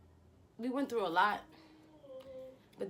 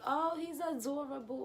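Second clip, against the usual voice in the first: gushing; 8 semitones higher than usual. Retold or imitated. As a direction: gush like someone newly smitten. Retelling her early infatuation.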